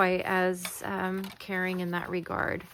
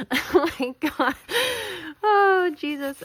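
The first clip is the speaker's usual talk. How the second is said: sudden loud startled cry; startled exclamation; 9 semitones higher, 8 dB louder than usual. Real, not acted. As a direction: blurt it out, startled. Sudden exclamation mid-work.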